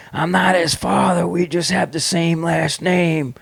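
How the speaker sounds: lightly acted, insistent disavowal; retold denial. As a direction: imitate a father disowning his son. Father disowns son, voiced in story.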